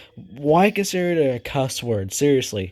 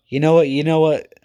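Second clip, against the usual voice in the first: sudden idea; 3 semitones higher, 5 dB louder than usual. Real, not acted. Sudden decision to rerate.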